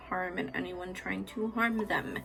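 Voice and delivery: soft, steady protective chant of the space; hushed affirmation. Real, not acted. Reader cleansing the space for viewers, soft and reverent.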